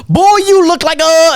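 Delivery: high, slow mock celebrity voice; a famous entertainer's voice. A famous entertainer teasing a nervous young host, high and slow. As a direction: put on a high teasing voice, slowly. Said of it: "he goes".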